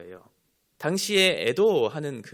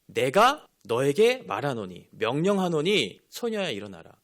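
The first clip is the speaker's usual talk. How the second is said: retold divine command, slow and louder at first; authoritative command; 4 dB louder, slower than usual. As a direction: proclaim it as an order with authority. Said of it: "예수님의 신적인 권위와 능력을 나타내시기". (권위 있게 명령하듯)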